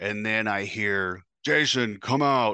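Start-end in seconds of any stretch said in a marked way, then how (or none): 1.4-2.5 mock authoritative, firm, commanding call, pitched up. Retelling being called out of the bathroom, retelling a commanding call. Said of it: "that's a very commanding voice".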